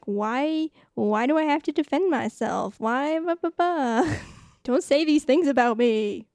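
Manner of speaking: lightly whiny, defensive retelling; mock a put-upon protest; mild mock protest. Host acting Erica hating the attention, mock protest.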